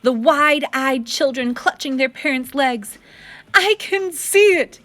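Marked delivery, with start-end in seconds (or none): 3.5-4.8 high, loud gasp of awe; father seeing the drawing, awed. A narrator's reading. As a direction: breathe it out amazed. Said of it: "gasps your father".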